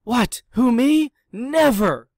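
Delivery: high, loud mock-innocent protest; a pug pleading innocence, high and loud. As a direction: squeal out your innocence like a caught pug. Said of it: "Pig pleaded innocence".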